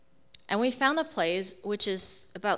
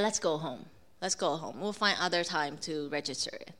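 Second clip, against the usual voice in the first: lower, softer voice of giving up; cooled down; 5 semitones lower, 4 dB quieter than usual. Retold or imitated. Husband after prayer suggests going home, cooled down. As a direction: calmly let it go, imitating him. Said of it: "Henry cooled down".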